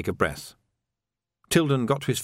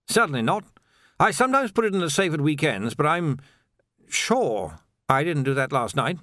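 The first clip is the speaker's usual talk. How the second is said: put-on higher-pitched, unsure old officer's voice; flustered old captain; 6 semitones higher than usual. Captain doubts his memory before his sergeant, flustered. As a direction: play a doddery captain, pitched up.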